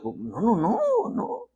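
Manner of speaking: squeaky, protesting no; emphatic refusal. Acted. Preacher rejecting a mother's excuse, emphatic refusal. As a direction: voice leaping high on the repeated no.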